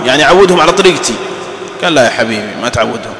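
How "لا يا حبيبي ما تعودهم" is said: lower, softer, patronising reply; mock condescending reply. Colleague patronisingly corrects the careless employee, lower and softer. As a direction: say it knowingly, dropping your voice.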